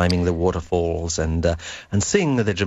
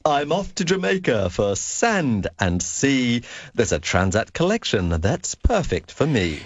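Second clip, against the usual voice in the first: slogan read; 3 semitones higher than usual. Acted. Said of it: "let's have the phrase once more".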